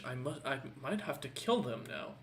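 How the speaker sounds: soft, half-whispered muttering to himself; whispering. Acted. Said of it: "you hear him whisper in Orcish".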